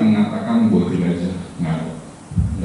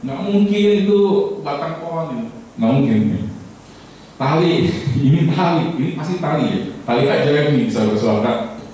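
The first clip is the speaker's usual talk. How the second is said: higher, eager voice sure it's a rope; excited blind man; 6 semitones higher than usual. Acted. Second blind man holding the tail, eager and sure. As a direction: insist it must be rope.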